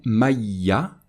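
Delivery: "maïya" with the n lost and a doubled y; assimilation without nasal. Shown as a demonstration. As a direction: say "maïya" with a held y and no nasal sound. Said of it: "on ne va pas prononcer".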